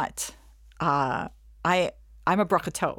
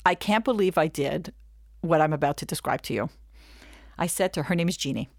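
normal talking voice

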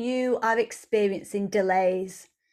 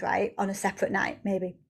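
ordinary talk

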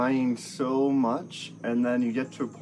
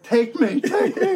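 very high, loud plea, half laughing; mock-ecstatic high shout; retold impassioned cry; 13 semitones higher, 6 dB louder, slower than usual. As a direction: cry out to the heavens, hammed-up. Retold crying out in field.

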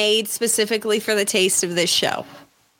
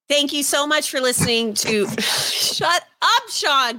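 stiff scripted outro read; 4 semitones higher than usual. Acted. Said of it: "It sounds like you're reading a script".

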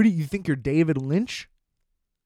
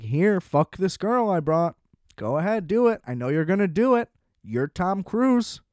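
lightly voiced pushy best friend; mock Jason Lee character; 4 semitones higher than usual. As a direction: egg his friend on, hammed-up. Imitating Jason Lee's character.

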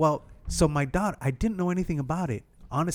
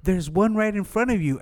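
mock shopkeeper; 7 semitones higher than usual. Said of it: "And she goes".

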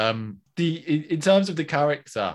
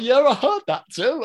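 mock casual reply; 13 semitones higher, 8 dB louder than usual. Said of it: "I'm like".

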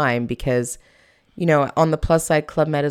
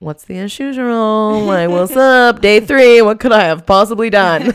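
higher and louder, building outrage; indignant disbelief; 6 semitones higher, 9 dB louder than usual. Retold or imitated. To boss Jerome, indignant and loud. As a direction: protest your innocence, rising with each line.

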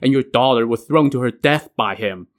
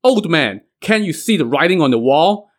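a raised voice, half-hearted yell; mock shout; 5 semitones higher than usual. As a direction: general shouting at the old commander, raised voice.

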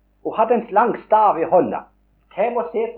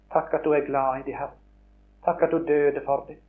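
prayer; 3 semitones lower than usual. Real, not acted. Closing prayer.

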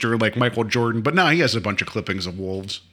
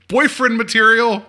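sarcastic question; 12 semitones higher, 6 dB louder, slower than usual. Retold or imitated. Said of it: "And I wrote".

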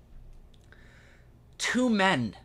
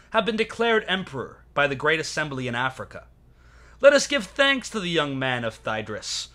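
roman orator; 3 semitones higher than usual. Acted. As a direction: declaim it to the Senate like a Roman orator. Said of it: "And I quote, and this is not practiced".

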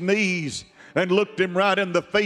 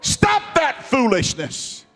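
faith rebuking; 4 semitones higher than usual. Acted. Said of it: "your faith has got to say".

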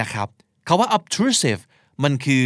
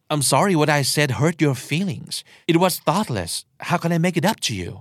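sincere; 3 semitones higher, much slower than usual. Shown as a demonstration. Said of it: "ต้องพูดด้วยน้ำเสียงที่ จริงใจ".

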